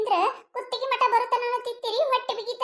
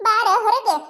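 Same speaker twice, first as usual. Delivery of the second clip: angry call; 5 dB louder than usual. Acted. Angrily calling neighbour out.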